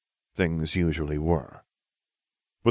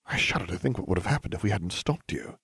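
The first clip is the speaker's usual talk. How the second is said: plain reading voice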